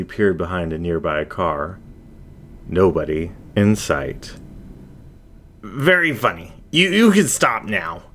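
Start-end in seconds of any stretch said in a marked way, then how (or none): 5.6-8.0 higher, stammering false confidence; forced bravado. Acted. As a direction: pretend not to be scared. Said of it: "Zack announced to the voice".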